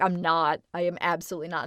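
small shy voice. Retold or imitated. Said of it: "my voice will get really, really small".

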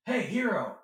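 bright loud hail across a crowd; shouting a friendly hello; calling out. Retold or imitated. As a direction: call his name out cheerfully. Calling out to cast member.

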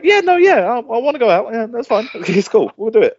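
high, loud, mock-eager agreement; agreeable friend, imitated. Imitating friend agreeing to go out tonight, high and eager. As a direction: imitate a friend insisting it's fine. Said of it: "And you were like".

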